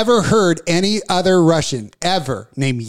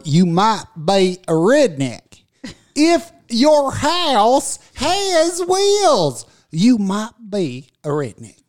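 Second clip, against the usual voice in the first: mock comedian catchphrase; 5 semitones higher, slower than usual. Quoting Jeff Foxworthy catchphrase.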